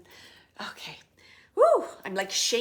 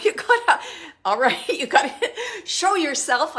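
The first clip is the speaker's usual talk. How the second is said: laughing through the words, higher and louder; 6 semitones higher, 9 dB louder than usual. Real, not acted. Medium laughing back at the spirit's urging, giggly. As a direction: giggle as you push back.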